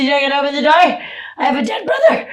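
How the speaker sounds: shouted high and loud at the secretary; yelling, outraged at the locked door; angry yell. Retold or imitated. Retold yell at the church secretary through locked doors. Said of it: "And I said".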